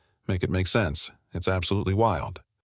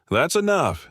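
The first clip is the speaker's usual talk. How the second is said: yell; 8 semitones higher, slower than usual. A narrator's reading. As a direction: shout them down. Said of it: "he yells".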